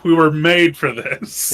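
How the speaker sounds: eager rally. Pretend. Player telling John they were born for this, slowly and proudly. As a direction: savour every word with pride.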